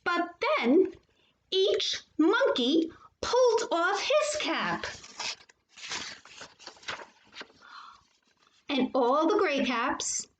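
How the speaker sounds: animated picture-book storytelling; reading to children. A narrator's reading. Teacher reading a favorite story to boys and girls, animated. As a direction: read it to children with lively lifts and pauses.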